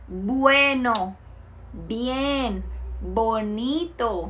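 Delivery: Bueno, bien, bonito, each b lightly closed at the lips; spaced model words with a clear b at the start; slow, careful classroom demo of the b sound. Shown as a demonstration. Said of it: "nós também falamos bueno, bonito e barato, B B B".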